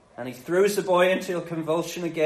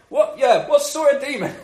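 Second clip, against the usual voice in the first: loud, high, cocky call; mock eager questioning; 8 semitones higher, 6 dB louder than usual. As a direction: play the keen demon-hunter on a job. Disciples acted as cocky ghostbusters.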